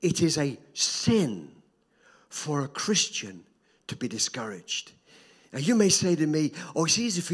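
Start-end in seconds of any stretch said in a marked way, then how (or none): 0.0-4.9 slow, weighted repeat stressing "is" and "for"; slow emphatic repeat. Shown as a demonstration. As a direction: lean on every phrase, slowly. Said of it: "Can, can I say that again?".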